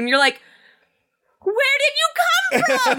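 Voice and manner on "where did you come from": bewildered surprise. Retold or imitated. Acting shocked at sudden boyfriend.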